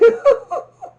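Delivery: high, loud burst of laughter; real high-pitched laugh. Real, not acted. Bursts out laughing at Cars two.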